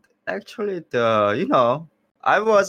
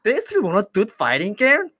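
laughing, higher and louder; 9 semitones higher, 5 dB louder than usual. Real, not acted. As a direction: laugh through the disbelief. Laughing retelling of surprise.

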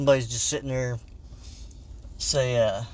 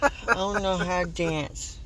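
timid trick-or-treater; 5 semitones higher than usual. Acted. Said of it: "I'm, I'm too scared".

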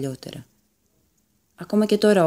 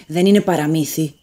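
louder, insistent protest; raised shout; 5 dB louder than usual. A narrator's reading. Leon shouting at his brother over the legend. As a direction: shout him down, mildly hammed. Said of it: "φώναξε ο Λέων".

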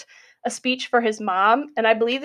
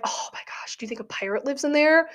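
hushed awe rising into a higher, quicker question; mock-serious excited gasp of a question; imitated excitement; 3 semitones higher, 3 dB quieter than usual. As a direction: imitate wide-eyed wonder, starting under the breath. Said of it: "he's, like, super excited".

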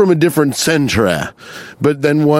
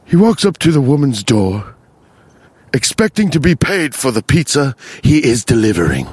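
nature narrator for a porno. Pretend. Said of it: "just like".

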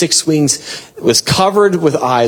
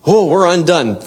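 acted cry of being overcome, pitched up; overwhelmed awe; 4 semitones higher than usual. Elders falling before the throne, overwhelmed. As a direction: exclaim it as if undone by awe. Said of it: "when they're overwhelmed".

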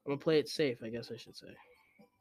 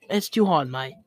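brief attempt at an English accent; lightly put-on English accent; Tom Holland impression; 4 dB louder than usual. Gamer finding the impression too hard, attempted English accent. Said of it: "Tom Holland, he has, like".

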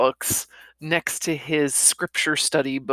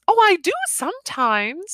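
put-on light young wife; 13 semitones higher than usual. Lively young wife voiced.

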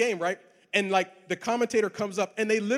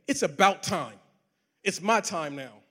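slow, self-satisfied boast; cocky boast; 2 semitones lower, slower than usual. Retold or imitated. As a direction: claim the win as yours. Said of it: "I could either go with option A and say".

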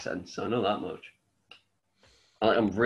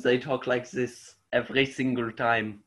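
German accent. Shown as a demonstration. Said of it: "when people talk like as Germans".

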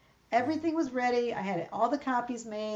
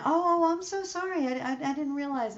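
flustered lady; 6 semitones higher, 4 dB louder than usual. Retold or imitated.

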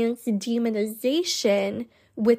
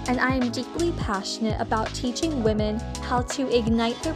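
podcast intro; faster than usual. Acted. Pre-recorded podcast intro over music.

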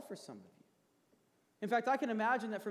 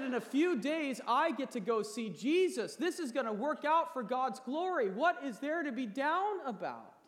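loud booming voice; 4 semitones higher, 4 dB louder than usual. Retold or imitated. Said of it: "in this loud, booming voice".

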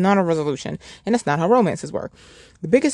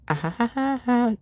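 real laughter; 7 semitones higher, 4 dB quieter than usual. Real, not acted. Real laughter during interruption.

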